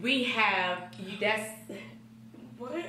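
slow, slurring a little from drink; tipsy and losing the words. Real, not acted. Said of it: "She too tipsy".

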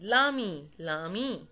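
"لامي" pronounced as one joined word; one-word elision. Shown as a demonstration. Teacher modelling the elision for pupils, said as one word. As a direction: repeat "لامي" with no break after the l. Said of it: "نطق واحد".

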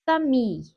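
"Famille" with the final syllable stressed; stress on last syllable. Shown as a demonstration. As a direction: lean on the end of "Famille". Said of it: "kelime vurgusu genellikle son hecededir". ("Famille" derken vurgu son hecede)

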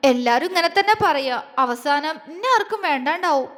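a touch of wounded reproach; tearful hurt. Acted. Girl fearing he will abandon her, mildly tearful. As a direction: say it doubting him, close to tears. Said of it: "കലങ്ങിയ കണ്ണോടെ പറഞ്ഞു".

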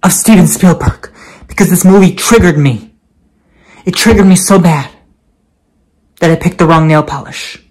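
loud, indignant Karen complaint; Karen rant. Acted. Karen complaining loudly about a movie that triggered her. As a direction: huff it out like an offended customer. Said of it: "the Karen".

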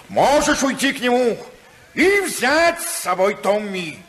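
husband lets wife go with a scornful laugh; bitter laughing. Acted. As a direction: laugh scornfully as you give in. Husband's bitter concession in quarrel.

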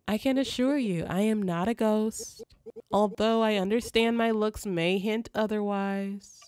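lightly voiced formal spirit, reassuring; composed spirit guide. Spirit assuring the sleeper it is no ghost, lightly acted composure. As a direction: read it as a courteous otherworldly guide.

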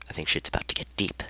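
whisper. Real, not acted. Hushed before a dream scene.

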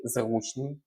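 зручний stressed on the first syllable, on У. Shown as a demonstration. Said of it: "Наголос падає на". (зручний з наголосом на «у»)

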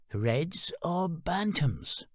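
put-on slow, patient old stallholder; very slow market lady voice; chicken lady. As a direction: spell it out for the beginner. Chicken lady asks slowly.

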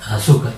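"Azúcar" with the weight on -zú-; stress on middle syllable. Shown as a demonstration. Teacher answers how it sounds, stressing -zú- in "Azúcar". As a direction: lean on ZÚ in "Azúcar". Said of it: "¿Cómo sería?".

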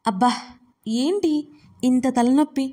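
put-on a hungover girl shouting for her sister; calling out in pain. A narrator's reading. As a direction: voice rising to a call of Deevi. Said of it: "అని అరుస్తోంది వీక్ష". (తలనొప్పితో అరుపు)

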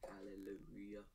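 breathy sarcastic whisper of relief; whispered hallelujah. Real, not acted. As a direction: whisper it like a tired little prayer. Sarcastic relief while waiting.

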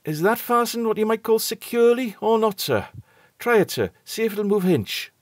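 a frightened steward insisting, voiced broadly; working-class sailor's speech, earnest and uneasy; nervous common steward. A narrator's reading. Steward Robert voiced in story.

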